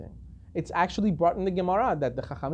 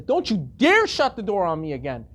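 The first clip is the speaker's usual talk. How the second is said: retold outrage with firm emphasis; really upset. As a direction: scold them, building to an affronted demand. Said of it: "he gets really upset".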